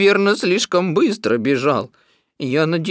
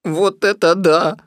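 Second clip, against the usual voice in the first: loud, higher donkey exclamation; excited cry; 6 semitones higher, 6 dB louder than usual. A narrator's reading. Donkey sees the pot and livens up, excited cry. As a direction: cry out in delighted surprise. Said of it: "закричал он".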